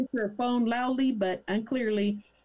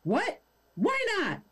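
much higher mock Karen squeal; hammed-up shock; outraged disbelief; 10 semitones higher than usual.

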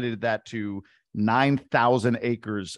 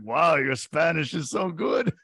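mock praise; 4 semitones higher, slower than usual. Bartender humouring the lady, acted.

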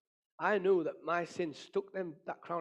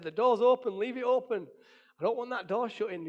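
loud, high, insistent retold plea; acted urgent shout; 6 semitones higher, 5 dB louder than usual. Man telling kids to leave it open, insistent retold shout.

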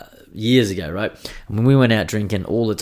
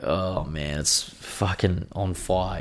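groggy pained groan; 2 semitones lower, 5 dB quieter, much slower than usual. Retold or imitated. Waking at 4am in pain.

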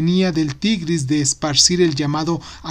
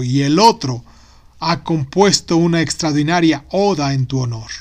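vizier voice. Acted. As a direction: announce the guests with pomp. Vizier presents visitors.

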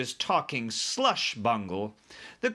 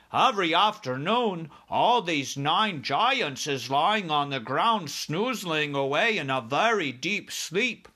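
lilting, higher giant storyteller; BFG explaining; 5 semitones higher, 4 dB louder than usual. Acted. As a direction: explain earnestly in the giant's singsong.

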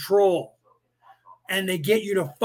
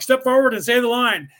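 a raised, higher barked command to step up; police telling the suspect to step up, a raised order; 5 semitones higher, 5 dB louder than usual. Retold or imitated. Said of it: "they're like".

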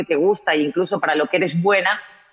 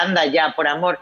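mild mock disbelief on "por amor"; skeptical scoff. Recalling her old reaction to TV guests: mild scoff. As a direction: scoff lightly at "por amor", as if it were nonsense. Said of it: "Y yo decía".

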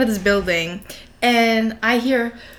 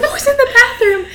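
mock panic; 13 semitones higher than usual. Panicked retelling of shower scare.

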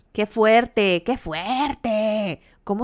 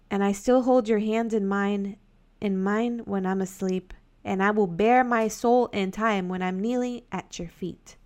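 slow dramatic reading; slower than usual. Acted. Reads lyrics slowly.

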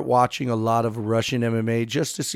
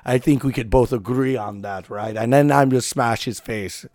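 mock Russian accent. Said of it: "a good Russian accent".

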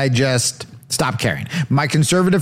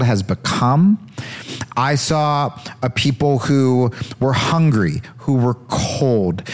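mock solemn candidate; 2 semitones lower than usual. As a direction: preach it like a pious politician. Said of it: "even if you do get a Christian".

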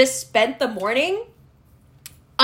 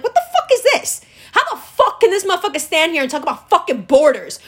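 furious imagined viewer. Retold or imitated. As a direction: vent like an offended viewer cursing the screen. Imagined Muslim reaction to Biden.

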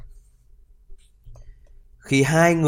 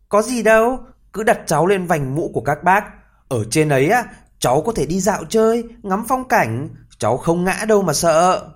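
put-on higher, cheerful little boy; tiny boy's voice; 6 semitones higher than usual. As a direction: breezily reassure the men. Tí hon to the strangers.

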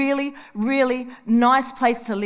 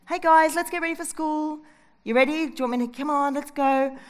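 calm, no yelling; 3 semitones higher than usual. Retold or imitated. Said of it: "I'm not gonna yell".

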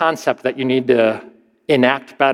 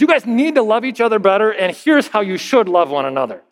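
higher, quicker, preachy scold; mock moralistic scolding; 5 semitones higher than usual. Paul scolding the church for not loving, mock moralistic. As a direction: wag a finger at them, fast and high. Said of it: "he scolds them moralistically and says".

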